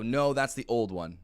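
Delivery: drawn-out, firm no; client correcting. Retold or imitated. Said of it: "And they go".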